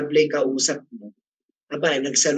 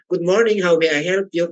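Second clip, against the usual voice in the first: bright phone greeting; 3 semitones higher than usual. Shown as a demonstration. Teacher demos how to answer an irate caller, pitched up. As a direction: lift the voice to greet an angry caller. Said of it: "paano yung tone".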